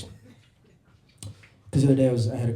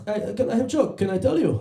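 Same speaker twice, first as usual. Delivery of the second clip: high-pitched mock Serbian accent; comic Serbian-accented English; 8 semitones higher than usual. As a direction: imitate an eager Serbian driver, voice pitched up. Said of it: "That's a Serbian accent".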